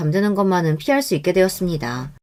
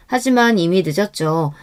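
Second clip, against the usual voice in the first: usual speaking voice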